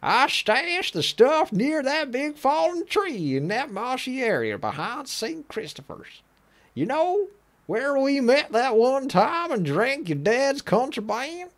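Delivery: high, slow Texan drawl; Texas accent. Acted. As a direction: drawl it out like a Southern gal. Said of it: "I'm starting to go into, like, Texas accent now".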